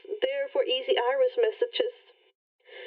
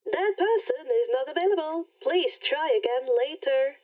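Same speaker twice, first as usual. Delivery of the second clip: automated message. Acted. Rainbow rejects again.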